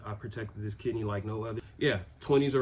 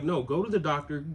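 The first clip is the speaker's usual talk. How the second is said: higher, firm motherly orders; a worried mother insisting he book the appointment; imitating mom, higher and pressing; insistent mom; 5 semitones higher, 3 dB louder, faster than usual. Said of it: "She was like".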